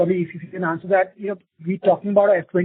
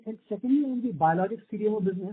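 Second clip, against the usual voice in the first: muffled. Real, not acted. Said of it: "your audio is coming muffled".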